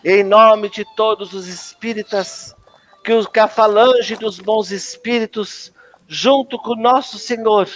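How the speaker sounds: measured, solemn prayer; spoken blessing. Acted. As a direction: offer a blessing in unhurried phrases. Faz oração em nome dos espíritas. (prece solene de bênção)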